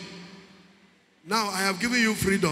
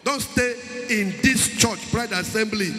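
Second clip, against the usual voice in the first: preaching at full force. Acted.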